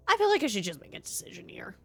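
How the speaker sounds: hushed whisper to himself; just breathe the words, no voice. Real, not acted. Player thinking to himself.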